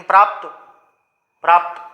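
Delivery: "प्राप्त" ending on a pt cluster without a vowel; final vowel silent. Shown as a demonstration. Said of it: "नहीं हो रहा".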